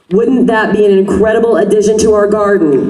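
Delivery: rousing question to the crowd; rally speech. Real, not acted. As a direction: pump up the crowd, shouting.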